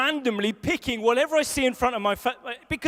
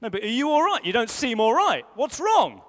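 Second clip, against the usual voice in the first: worried wife; 3 dB louder than usual. Retold or imitated. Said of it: "she'll be like".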